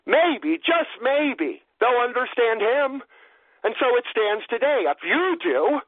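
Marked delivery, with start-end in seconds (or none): 0.1-3.0 hopeful father. Acted. Voicing the hopeful owner.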